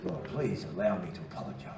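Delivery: mock polite. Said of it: "I said".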